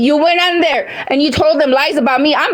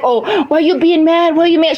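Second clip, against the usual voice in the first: slow, mocking parody of his question; mocking imitation. Mocking the man who keeps asking why she is mad, slow parody. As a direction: mimic him with scorn, drawn out. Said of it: "don't come in here acting like".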